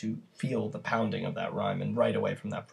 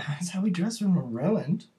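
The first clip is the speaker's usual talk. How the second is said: laughing retort; 7 semitones higher, 4 dB louder than usual. Acted. Ruined maid's retort.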